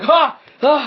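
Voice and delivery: loud, high exhaled "ha"; sudden loud gasped cry, acted. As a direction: burst out a sharp "ha", twice. Mimics character's reaction in game.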